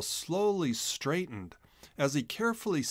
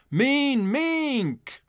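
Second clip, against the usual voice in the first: high shocked exclamation, much higher; startled cry; 12 semitones higher, 5 dB louder than usual. A narrator's reading. Chisel recognizes the villain, shocked high cry. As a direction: blurt it out in alarm. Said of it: "the words escaped from his mouth".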